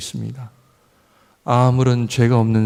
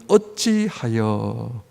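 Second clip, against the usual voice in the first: "어찌하여" stretched very slowly with a lower voice; drawn-out word; 3 semitones lower, 3 dB quieter, much slower than usual. Shown as a demonstration. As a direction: linger on each syllable of "어찌하여". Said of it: "따지는 첫 번째 내용은". ("어찌하여"를 아주 느리게 늘여서)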